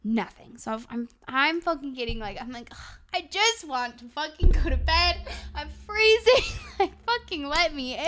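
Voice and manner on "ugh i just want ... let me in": whiny yell peaking high on FREEZING; retold screaming. Freezing and locked out late at night, whiny screaming. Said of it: "I'm, like, screaming".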